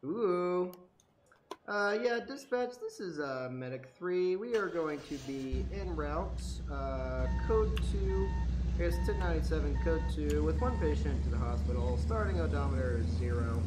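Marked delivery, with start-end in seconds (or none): 1.7-13.6 calm radio call to dispatch; police radio. Pretend. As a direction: report in like on the radio. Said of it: "my radio talk".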